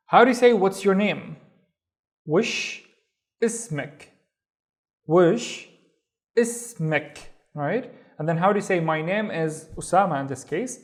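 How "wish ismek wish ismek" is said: Wish, long pause, ismek; word by word. Shown as a demonstration. Teacher reviewing "what's your name", Wish ismek word by word.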